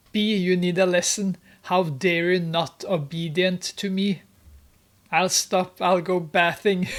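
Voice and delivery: loud, bossy scolding. Retold or imitated. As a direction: bark orders at her. Joe bullying Grace.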